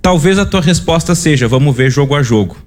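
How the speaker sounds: normal talking voice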